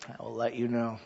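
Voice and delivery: dropped low and quiet: I will let you know. Shown as a demonstration. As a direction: let it fall away, wry. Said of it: "repeated softer".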